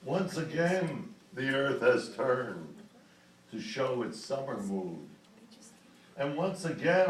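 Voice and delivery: measured poetry reading with pauses after each phrase; poem recitation. Acted. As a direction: recite the verse line by line, letting phrases settle.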